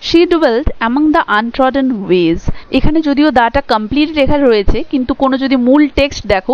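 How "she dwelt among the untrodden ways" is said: slow poem reading. Shown as a demonstration. Teacher reads the poem's opening line to students, slow deliberate recitation. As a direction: read the poem line very slowly, word by word. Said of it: "তো দেখো".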